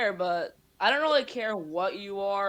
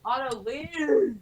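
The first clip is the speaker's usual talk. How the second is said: calling out; 5 semitones higher, much slower than usual. Real, not acted. Telling little brother to leave.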